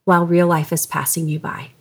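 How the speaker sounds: tender retelling, slightly hushed; gentle and loving. Retold or imitated. Wife retelling husband's words to her, gently and lovingly. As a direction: let the hard truth land gently. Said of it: "just in a very gentle and loving way".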